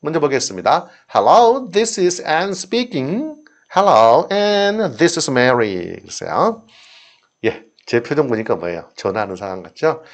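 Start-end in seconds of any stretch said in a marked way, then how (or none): 1.1-3.4 phone greeting. Shown as a demonstration. Teacher reads phone dialogue role. 3.7-5.9 phone greeting. Shown as a demonstration. Teacher reads phone dialogue role.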